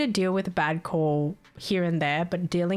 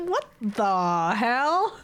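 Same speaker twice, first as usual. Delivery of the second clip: shocked what the hell; 3 semitones higher, much slower than usual. Real, not acted. Shocked reaction, drawn out.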